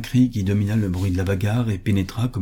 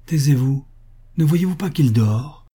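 higher-pitched, indignant rebuke; scolding hush; 6 semitones higher, 3 dB louder than usual. A narrator's reading. Grandmother shielding her sleeping son, scolding the neighbour. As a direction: silence the intruder insistently. Deluded mother silences the alarmed neighbour.

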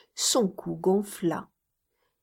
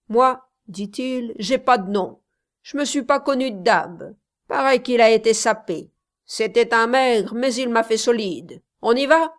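put-on defiant young tough; 3 semitones higher, 5 dB louder than usual. Young man challenging to fight.

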